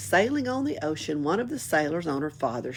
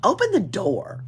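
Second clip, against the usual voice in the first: Annika shouting; 4 semitones higher, 6 dB louder than usual. A narrator's reading. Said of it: "shrieked Annika".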